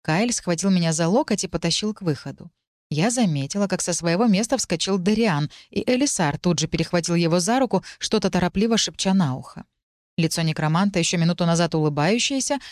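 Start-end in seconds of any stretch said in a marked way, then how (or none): none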